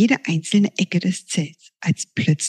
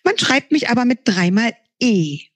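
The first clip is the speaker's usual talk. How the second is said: sun sprite. Acted. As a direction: chatter like an excited sprite. Sun creature introduces itself.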